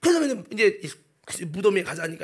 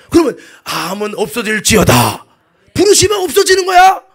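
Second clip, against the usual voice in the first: loud faith command, rising high; commanding proclamation; 3 semitones higher, 15 dB louder than usual. Real, not acted. Preacher commands cancer to vanish, commanding proclamation. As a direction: order it gone with a preacher's force.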